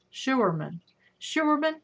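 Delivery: "Schuerman" sounded out as SHOO-er-man, tried twice; trying out the name. Shown as a demonstration. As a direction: test "Schuerman" aloud, sounding out the German oo. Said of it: "that's how I say it".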